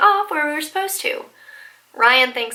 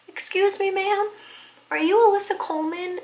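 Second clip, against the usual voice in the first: lightly voiced polite old man; a hint of a kindly grandpa; 7 semitones higher, 4 dB quieter than usual. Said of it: "this little old man".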